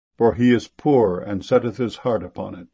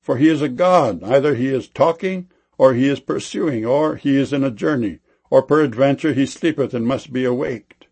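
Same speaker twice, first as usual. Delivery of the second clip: loud, higher mocking call, fading into steady scorn; sarcastic jeering proclamation; mocking taunt; 4 semitones higher, 4 dB louder than usual. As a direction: taunt them like a prophet jeering at false gods. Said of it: "Elijah mocked them".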